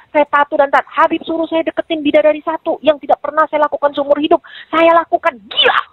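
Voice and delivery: retold furious tirade. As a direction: replay a tirade, building to an outburst. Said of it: "Oh, ngamuk saya Kak Emma". (menirukan amukan, nada makin meninggi)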